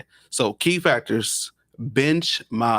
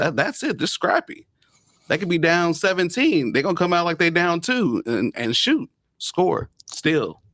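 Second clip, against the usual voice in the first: higher-pitched, excited fan talk; excited confidence; 5 semitones higher than usual. Real, not acted. Fan praising his scrappy team to the host, excited. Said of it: "you can hear the excitement in his voice".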